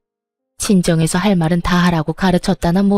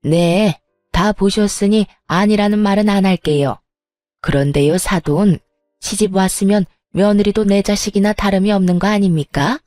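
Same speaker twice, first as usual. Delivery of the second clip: sneering sarcasm. Acted. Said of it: "얄밉게도 비아냥거리며".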